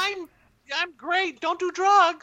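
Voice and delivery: squeaky, very high cartoon voice; helium voice. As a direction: talk like you sucked helium. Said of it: "he has kind of a helium voice".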